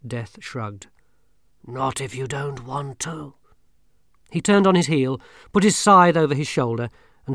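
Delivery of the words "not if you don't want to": grim reaper voice. Acted. Death speaks.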